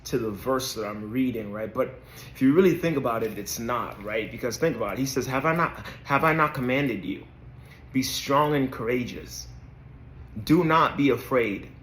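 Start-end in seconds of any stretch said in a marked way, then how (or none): 5.3-11.7 preaching. Acted. Preaching the verse to his viewers with conviction. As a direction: proclaim it like a preacher.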